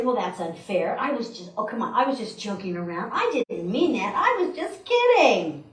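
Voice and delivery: defensive protest. Acted. Listener excusing careless words to the speaker, mock-defensive. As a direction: make excuses, rising to a whine.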